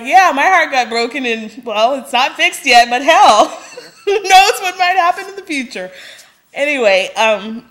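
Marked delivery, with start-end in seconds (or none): 0.0-5.9 loud, high mock advice that dissolves into laughter; sarcastic paraphrase. Mocking Clark's advice to heartbroken Kat, laughing. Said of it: "You're like".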